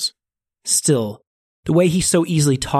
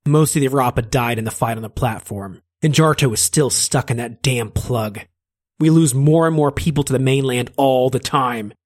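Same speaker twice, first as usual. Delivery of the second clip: wry Finnegan. Acted. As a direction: lecture the spy with weary sarcasm. Finnegan voice in story.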